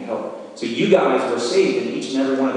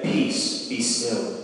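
hushed command; 3 semitones lower, 6 dB quieter, much slower than usual. Acted. Jesus rebuking the wind.

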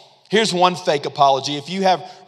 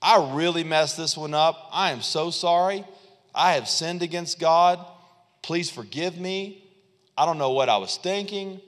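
soft, quiet, contrite; sincere apology; 3 dB quieter than usual. Retold or imitated. Saul as he should have apologized to Samuel, softly sincere. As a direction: humbly ask forgiveness, gently. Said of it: "instead of saying".

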